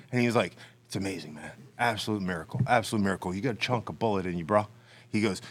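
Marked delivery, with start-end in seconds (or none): 0.9-4.7 surfer hippie dude. Retold or imitated. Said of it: "talking like some surfer hippie dude".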